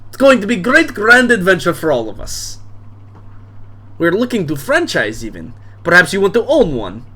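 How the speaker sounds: boisterous bar owner. Acted. Drunk dad welcoming daughter's friends to his bar, booming. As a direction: play the drunk dad greeting guests expansively.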